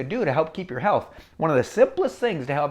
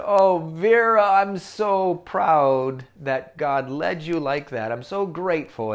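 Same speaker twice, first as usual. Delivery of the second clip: proud tender mother; slower than usual. Acted. Mother telling her daughter she is proud, slow and tender. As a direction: say it with loving pride.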